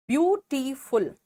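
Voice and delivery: slow ब्यूटीफुल broken into beau-ti-ful; slow classroom syllable demo. Shown as a demonstration. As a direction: count the syllables as you say it. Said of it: "यहाँ भी तीन है".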